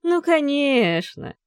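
a high, slow, encouraging sing-song; reassuring. A narrator's reading. Father reassures his son, mock-kindly. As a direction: pat him on the back with your voice. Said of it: "ободряюще похлопал".

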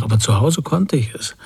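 put-on a teacher lightly aping the child's excuse; mocking imitation. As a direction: mildly mimic the whining excuse. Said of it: "der Lehrer äffte mich nach". (leicht nachäffend, spöttisch)

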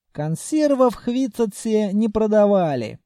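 ordinary delivery, nothing marked

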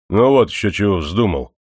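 smirking. Acted. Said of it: "ухмыльнулся управитель".

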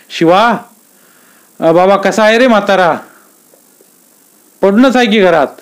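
lightly acted rural talk; village conversation voiced. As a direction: play the villagers chatting in dialect. Aba and Shiva chat in village.

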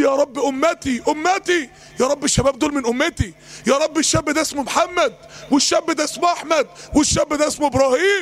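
mildly urgent imitated pleading; retold plea. Preacher voicing a plea to God for his nation, mildly pleading.

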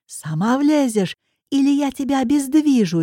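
bully her into the car; roar. Acted. Drunk man threatening the girl, angry threat. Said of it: "ревёт он".

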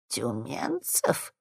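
soft, low and slow; quiet question. Acted. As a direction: ask softly, suddenly wary. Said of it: "внезапно тихо спросила она". (тихий настороженный вопрос)

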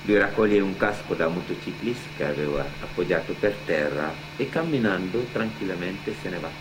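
ordinary talk, nothing marked

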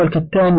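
الكتان with a after ك; fatha on kaf. Shown as a demonstration. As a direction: say الكتان as al-kattan. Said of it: "بفتح الكاف".

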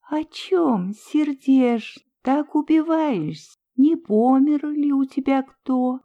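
put-on old woman comforting a weeping stranger, gently; kindly old woman. A narrator's reading. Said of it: "ласково спросил её чей-то голос".

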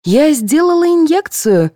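high, slow explanation; high, slow patient nurse; explaining nurse. A narrator's reading. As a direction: explain calmly to the guest. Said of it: "пояснила медсестра".

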